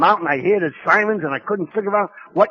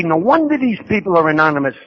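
indignant rant; 5 semitones higher, 3 dB louder than usual. Retold or imitated. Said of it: "I remember saying to Jackie".

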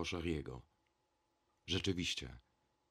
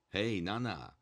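put-on street boy's call of Hej, Nana; shout; 3 dB louder, slower than usual. A narrator's reading. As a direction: shout it at the poster and run. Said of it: "potem krzyknął". (okrzyk chłopaka na ulicy)

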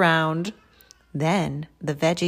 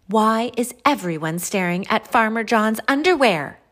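raised, louder character voice; puzzled question; 4 semitones higher, 5 dB louder than usual. Acted. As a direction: ask the whole group, pitched up and loud. Carrot questions the staring veggies.

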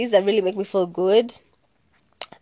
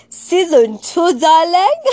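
higher, louder teasing call; sing-song hype; excited sing-song; 7 semitones higher, 5 dB louder, slower than usual. Real, not acted. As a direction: tease the fans with it. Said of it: "excited teasing announcement".

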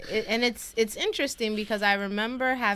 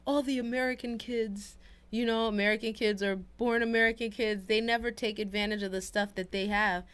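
lightly voiced grumbling grown-up, pitched up; a hint of a scolding elder; mock complaining adults; 4 semitones higher than usual. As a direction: imitate someone griping about spoiled kids. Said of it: "whenever people be like".

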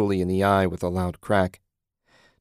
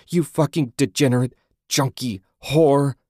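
loud, higher-pitched furious name-calling; vehement insults; 5 semitones higher, 6 dB louder than usual. A narrator's reading. Susan insulting Julie, vehement and loud. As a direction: hurl each insult with mounting force. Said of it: "stunned by Susan's vehemence".

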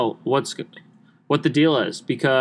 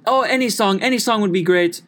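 much higher, gushing put-on lady voice; mock older lady; 8 semitones higher than usual. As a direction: gush like a sweet older lady on the phone. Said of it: "she goes".

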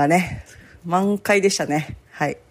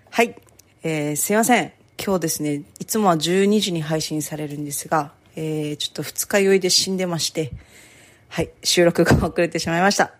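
hungover. Real, not acted.

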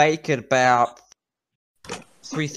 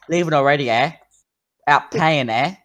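bartender in a put-on Canadian accent; 3 semitones higher, 5 dB louder than usual. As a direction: play a Canadian barkeep, lifting the voice a little. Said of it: "Why is he Canadian?".

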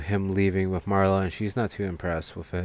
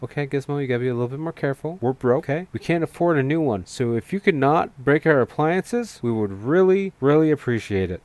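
mock scolding mother; 5 semitones higher, 4 dB louder than usual. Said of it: "And she's like".

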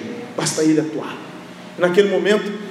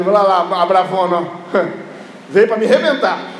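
amused mock Jesus with a small laugh; little chuckle. Preacher as Jesus to angry Mary, imitated little chuckle. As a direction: tease her with a light chuckle. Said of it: "deu uma risadinha".

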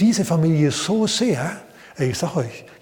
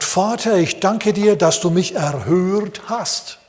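solemn prayer; 5 semitones higher, 3 dB louder, slower than usual. Acted. Jesus praying aloud.

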